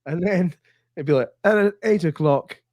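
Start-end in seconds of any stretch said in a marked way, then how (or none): 1.4-2.6 high announcing a big reveal; TV announcer voice. Retold or imitated. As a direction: build it up like a continuity voice. Imitating TV announcer.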